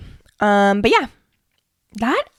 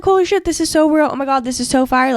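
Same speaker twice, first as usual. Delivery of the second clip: higher, excited mock gush; gushing fan; 4 semitones higher than usual. Supportive friends reacting to the photo, excited and higher. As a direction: squeal it like an impressed friend.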